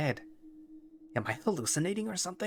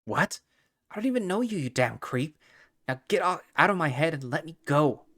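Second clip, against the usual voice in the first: angry captive; 7 semitones higher than usual. Acted. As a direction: shout at the creep to get out of your head. Captive yells at the creature.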